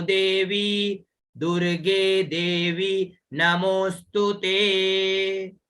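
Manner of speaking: measured chant of the Sanskrit verse; teacher demonstrating the verse for students; slow shloka recitation. Shown as a demonstration. Chant the full verse for the class to repeat. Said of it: "तो".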